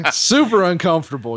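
laughing through the words. Real, not acted. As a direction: laugh while saying it. Laughing at gay ostrich joke.

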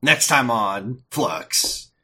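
slow trailer voice; trailer announcer. Acted. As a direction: announce it like a preview. Announcing preview.

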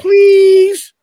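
high, loud pleading please. Retold or imitated. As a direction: beg for it, squealing high. Kid begging for prom date.

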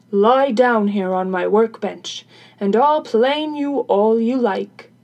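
loud, put-on carpenter's voice; agreeable carpenter. Carpenter tells crone to lie down, loud workman's voice. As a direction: instruct her loudly in character.

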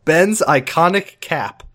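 slow dramatic title read; slow title announcement. Pretend. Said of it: "Episode title".

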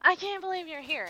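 high-pitched mock surprise; hammed-up flustered disbelief; retold shock. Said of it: "but she's like".

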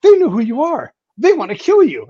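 high, loud, out of breath and urgent; panicked analyst blurting out the news; breathless alarm. Retold or imitated. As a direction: gasp it out like you ran the whole way to warn Pete. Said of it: "comes running up, breathless".

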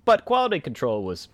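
loud, high vintage narrator voice; hammed-up 1920s radio read; old-timey voice. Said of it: "we want it in the old-timey voice".

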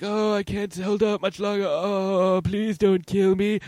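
feigned weakness, high put-on plea; slow, high, badly faked begging; Palpatine. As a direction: plead like a helpless victim, hammed-up. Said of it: "who had been feigning weakness".

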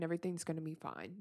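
hurried self-dismissal; brushing it off. Retold or imitated. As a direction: rush past the feelings with a shrug. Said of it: "it's like, well".

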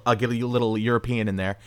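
talking round a cigarette; cigarette in mouth. Real, not acted. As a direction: lips holding a cigarette. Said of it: "I have a cigarette in my mouth".

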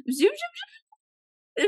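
very high, drawn-out zooming noise; cartoonish high rewinding whirr; rewind sound effect. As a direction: squeal it like a tape whizzing backwards.

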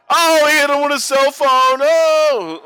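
high, loud startled oh; shocked outcry. Real, not acted. Watching the cell phone hit, a loud high outcry.

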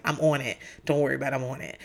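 low, soft, placating husband; retold reassurance. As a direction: quote him reassuring, dropping the voice.

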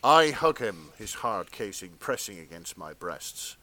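earnest, measured erotica read; fan fiction narration.

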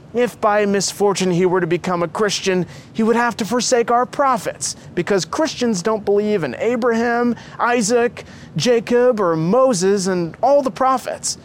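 high, agitated woman's voice; protesting mother. A narrator's reading. Mother fearing her son forsakes the prophets, protesting.

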